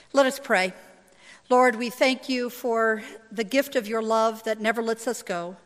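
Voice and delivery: measured prayer, softening at phrase ends. Real, not acted. Pastor praying before the scripture reading, prayerful.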